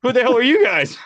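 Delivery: loud, high outraged yell; who the hell, shouted high; mock angry yell. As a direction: bark it like a startled boss. DP yelling at unknown crew.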